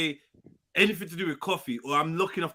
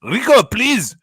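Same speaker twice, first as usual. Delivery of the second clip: loud mock Arab accent, begging; hammed-up Arab accent; Arab accent attempt; 5 semitones higher, 10 dB louder, slower than usual. Friends on stream trying out an Arab accent. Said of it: "I'm trying to do Arab".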